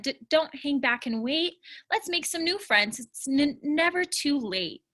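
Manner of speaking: repeats the first sound of some words; stuttering. Acted. Cooper urging the others to make friends, stammering. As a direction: snag on openings but keep the cheer. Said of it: "my words get t- tangled".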